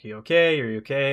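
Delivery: mildly urgent, voiced as a retold question; concerned check. Gal calling to him in the water, imitated concern.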